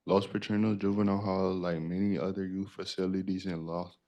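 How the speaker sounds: talking while chewing gum. Real, not acted. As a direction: speak with gum in your mouth. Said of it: "I got gum in my mouth".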